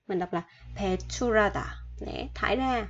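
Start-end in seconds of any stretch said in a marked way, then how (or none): 0.8-1.6 배출하다 read with the R carried over, pae-chu-ra-da; 배출하다 said as pae-chu-ra-da, no clear H; linked R sound. Shown as a demonstration. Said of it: "Mình sẽ đưa chữ R qua đây nha".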